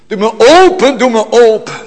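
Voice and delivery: high, loud, urgent knocking plea; fervent plea. Acted. Preacher voicing the bridegroom at the door, loud urgent plea. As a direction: call through the door with longing.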